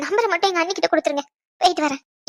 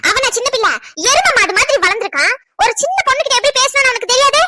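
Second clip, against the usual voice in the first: indignant retort; 4 semitones higher than usual. Acted. Angrily rejects his excuse.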